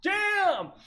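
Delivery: high-pitched, drawn-out mock exclamation; retold astonishment. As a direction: act out being stunned, pitch shooting right up. Retold shock at doors shut again.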